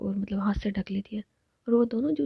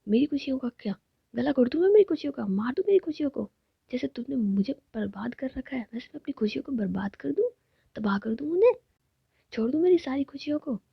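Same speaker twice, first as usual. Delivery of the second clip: dramatic angry outburst; 3 semitones higher than usual. Acted. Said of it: "थोड़ा गुस्सा में जाती है".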